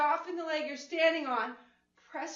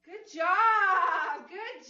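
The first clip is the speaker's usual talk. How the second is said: cheering shout; 3 semitones higher, much slower than usual. Real, not acted. Instructor cheering finished set.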